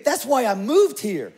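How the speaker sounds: put-on young PA dreaming of power and cookies; dreaming big. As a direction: wish it out loud, laughing. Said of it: "I'm thinking".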